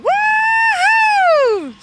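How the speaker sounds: high, loud whooping yell; a high, loud, gleeful holler copied from the worker; mimicked worker's whoop. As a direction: whoop it up like the jeering slaughterhouse worker. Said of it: "The guy's going".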